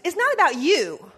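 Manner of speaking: mock-stern mother scolding, speeding up at the end; stern mom lecture. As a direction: lay out who's in charge. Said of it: "That was my great phrase".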